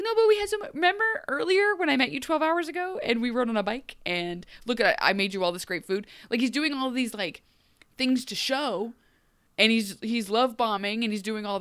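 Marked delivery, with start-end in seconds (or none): 0.0-6.1 pleading. Retold or imitated. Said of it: "he's like".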